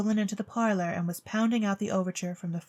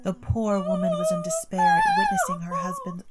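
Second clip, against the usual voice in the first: very high falsetto warble, louder; shrill soprano; 4 dB louder than usual. A narrator's reading. Narrator reading as Mister Bostwick sings in a high soprano. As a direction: read it in a hammed-up soprano squeal.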